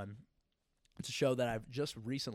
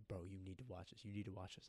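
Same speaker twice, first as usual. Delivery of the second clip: mock begging; 4 semitones lower, 8 dB quieter, faster than usual. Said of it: "beg me and go".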